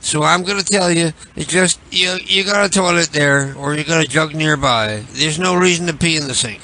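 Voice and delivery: a hint of a put-on caller; lightly voiced prank caller. Larry voice continues.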